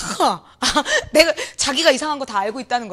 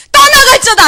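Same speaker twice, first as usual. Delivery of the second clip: high loud 떠나갈지어다; mock rebuke shout; 12 semitones higher, 11 dB louder than usual. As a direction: bellow the rebuke like the zealous youth. Youth group's shouted rebuke.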